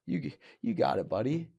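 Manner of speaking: mock-encouraging imitation of doubters; condescending put-on reassurance. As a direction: patronize them with false agreement. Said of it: "that were condescendingly saying".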